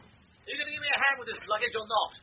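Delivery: snapping furious at his wife over bags; bitter shouted row about luggage; angry shout. Acted. Husband yelling at wife over the luggage, angry shout.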